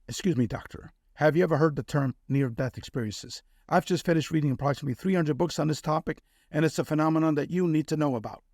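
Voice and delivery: flat mechanical robotic voice; robot voice, rushed in the middle. Retold or imitated. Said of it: "a robotic voice comes out of my mouth".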